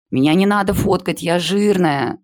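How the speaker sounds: high shrill protest; shriek. A narrator's reading. A girl begging not to be photographed, high protest. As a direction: cry out high in mock panic. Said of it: "закричала Полина".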